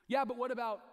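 mock objection. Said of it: "imagined objector".

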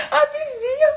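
high, slow words through laughter; laughing relief. Retold or imitated. Neighbour shows her many bills, laughing high relief. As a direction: giggle at how small your bills are. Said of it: "Você fala".

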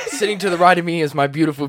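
talking through a laugh. Real, not acted. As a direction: laugh while you introduce.

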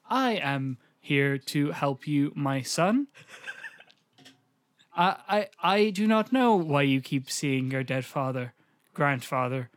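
slow, stilted robotic delivery; robot mum. Acted. Co-host mocking a film's mum as a robot, robotic. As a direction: mimic a freshly programmed machine, word by word. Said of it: "talks like she's just been programmed".

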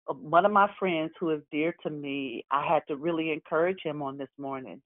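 hoarse after a cry. Real, not acted. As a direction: voice worn from crying. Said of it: "I sound like this because I've been crying".

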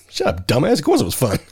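lightly voiced cartoon kid; a hint of a bratty kid; imitating a South Park kid. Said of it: "Was it Stan or Kyle".

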